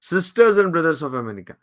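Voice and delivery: very slow, each word weighed; slow solemn quote. Retold or imitated. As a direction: recite it slowly like a famous opening. Quoting Vivekananda's opening again. (ধীরে, গম্ভীর উদ্ধৃতি)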